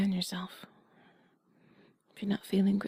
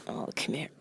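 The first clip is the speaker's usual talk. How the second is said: tender; 7 semitones lower than usual. Acted. Pulling listener into hug.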